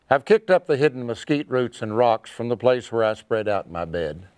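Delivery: cowboy poetry. Acted. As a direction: recite it like a cowboy poet by the campfire. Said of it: "I'd like to do a poem for you".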